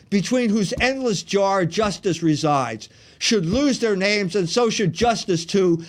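grand theatrical recitation of Shakespeare; hammy stage actor. Acted. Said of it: "the famous speech that Ulysses gave".

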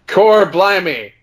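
high, drawn-out Cockney-style exclamation; mock British accent. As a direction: blurt it in an exaggerated British accent, laughing. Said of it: "no British accents, and we're reading the story, and it's like".

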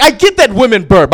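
ordinary talk, nothing marked

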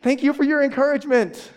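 fake-grateful, brushing off the doubters; a hint of mock politeness, laughing; sarcastic thanks. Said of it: "And I'm like".

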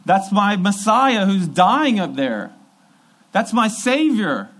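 high, loud and slow anguished cry; grieving follower. Retold or imitated. Follower watching Jesus die cries out, high and slow. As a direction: wail it as your king dies. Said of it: "you're going".

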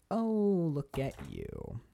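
slow, knowing once-over, voice dropping away; imitated sly interest. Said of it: "He's like".

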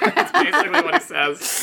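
cracking up mid-sentence; laughing. Real, not acted. Laughing with the co-hosts at the creepy uncle.

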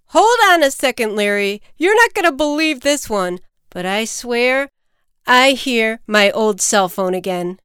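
amazed caller. Acted. Man tells Larry he hears his old phone, amazed. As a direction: interrupt the call in astonishment.

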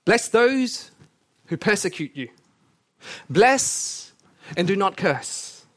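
lifted pulpit reading voice; scripture reading. Acted. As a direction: proclaim the verses to the hall. Reads scripture aloud to congregation.

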